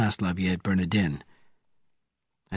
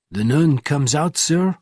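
higher, louder call to the passenger; cried out; 6 semitones higher, 5 dB louder, slower than usual. A narrator's reading. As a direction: call it out eagerly, pitch rising on sir. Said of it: "cried the driver".

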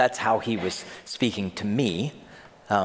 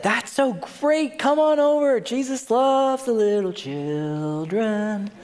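slow, high, syrupy welcome; sarcastic sugary voice of the disciples; mock sweet disciples; 9 semitones higher, slower than usual. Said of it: "they said".

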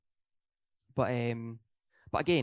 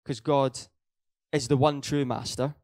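louder, pressing on God and master; emphatic preaching; 6 dB louder than usual. Real, not acted. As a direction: preach it out with force. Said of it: "emphasize it again".

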